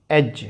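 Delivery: "edge" said as "ej", D not sounded; silent d. Shown as a demonstration. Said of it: "when D is silent". ("edge" में D silent, "एज")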